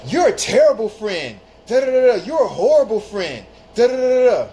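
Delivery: loud, high mock rant; retold angry outburst. Friend going off on him, mock shouted rant. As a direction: spit out the insults like she's furious.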